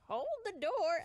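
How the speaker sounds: put-on old swimmer asking to catch the elevator, loud and high; old man calling. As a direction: call out from down the hall. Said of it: "and he's like".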